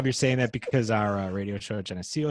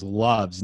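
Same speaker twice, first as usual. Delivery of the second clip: slow, weighty "loves"; stress on LOVES; 2 semitones lower than usual. Retold or imitated. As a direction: draw out "loves" as if in capitals. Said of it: "all capital letters".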